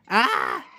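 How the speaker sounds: short loud scream; startled yelp. Pretend. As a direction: yelp as someone jumps out. Startled by someone appearing.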